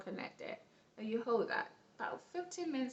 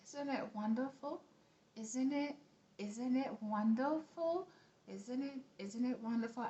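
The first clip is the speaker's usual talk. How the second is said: gentle affirmation; 4 semitones higher than usual. Shown as a demonstration. Teacher models the affirmation for viewers while tapping, gently. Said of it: "as you say".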